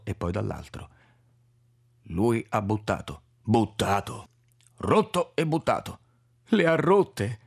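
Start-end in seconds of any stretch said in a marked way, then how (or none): 2.1-6.0 lightly voiced old Czech man, aggrieved; an aged foreigner repeating himself in dismay; Orlik's broken Italian. 6.5-7.4 higher, louder anguished moan; a dismayed moan at the news. Acted. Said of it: "dissi in un gemito".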